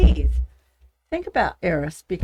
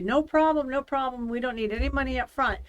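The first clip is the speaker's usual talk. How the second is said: scammer voice; 6 semitones higher than usual. Retold or imitated. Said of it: "And they said".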